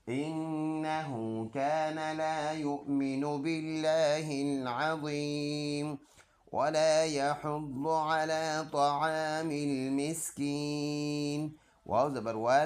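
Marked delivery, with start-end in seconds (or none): 0.1-6.0 melodic recitation with a slow, drawn-out अज़ीम; Quran recitation. Shown as a demonstration. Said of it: "full आयत ऐसे पढ़ेंगे". 6.5-11.5 melodic tajweed chant; Quran recitation. Shown as a demonstration. Recites the verse before spelling.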